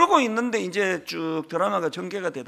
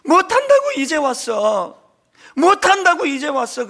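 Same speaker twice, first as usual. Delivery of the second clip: loud, high wailing cry of grief; retold wailing; 8 semitones higher, 8 dB louder than usual. Elder brother wailing over his mother's death, loud grieving cry. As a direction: wail it out like a grieving son. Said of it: "통곡을 하는데요".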